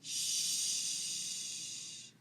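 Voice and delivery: long unvoiced "Sh"; drawn-out "Sh", all air; isolated SH sound. Shown as a demonstration. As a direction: hold "Sh" as a steady hush. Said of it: "we're gonna try our spelling sounds".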